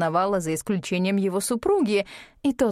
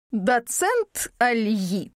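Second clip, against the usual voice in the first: slow hissing drawn-out call; hoarse snake-like drawl; much slower than usual. Acted. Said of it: "сиплым змеиным голосом протянула она".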